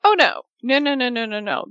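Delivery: high "oh no" falling away; playful storyteller's dread, descending in pitch; mock dismay. Podcaster teasing the butler's return, mock dismay. Teller mock-dismisses never seeing butler again.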